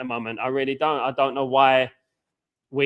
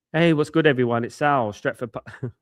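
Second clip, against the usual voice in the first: forced low voice. Shown as a demonstration. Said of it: "trying forcefully speaking low".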